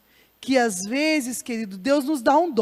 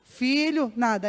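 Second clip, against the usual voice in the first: soft call again; 5 dB quieter, slower than usual. Acted. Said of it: "fala um pouquinho mais forte".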